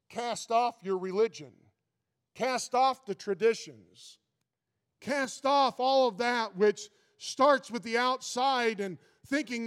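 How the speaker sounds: rising preacher's call to cast it off; preaching. Acted. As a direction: drive each command home. Preaching at full force.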